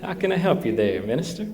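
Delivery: friendly Texan farmer accent, lightly voiced; Texan drawl. Texan farmer greeting the minister, mock Texan accent. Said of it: "That's how they talk in Texas".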